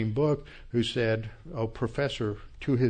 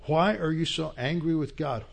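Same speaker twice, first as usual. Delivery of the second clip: higher, insistent question; a retold challenge that will not let go; pressing challenge; 5 semitones higher than usual. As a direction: keep pressing, pitched up. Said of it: "he says to press".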